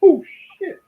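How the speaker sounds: high, loud startled curse; starstruck panic. Retold or imitated. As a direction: blurt it in a flustered rush. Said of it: "I'm like".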